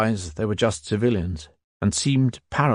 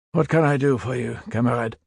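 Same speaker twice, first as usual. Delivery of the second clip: shopkeeper greeting; 3 semitones higher than usual. A narrator's reading. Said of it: "like a shopkeeper greeting a potential customer".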